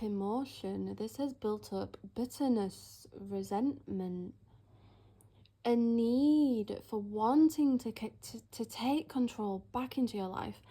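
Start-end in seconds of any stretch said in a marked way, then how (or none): 5.6-10.6 real stutter, tripping over "to take". Real, not acted. Psychic picking up someone's blocked energy, stuttering. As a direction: stumble and restart on the words. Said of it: "Notice how I'm stuttering a lot".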